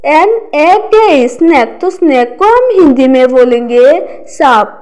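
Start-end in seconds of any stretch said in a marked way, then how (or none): 0.1-1.3 spelling out letters. Shown as a demonstration. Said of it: "next word है स्नेक".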